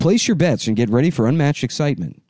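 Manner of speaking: hyped sponsor read. Acted. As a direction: pump up the excitement. Ad read continues.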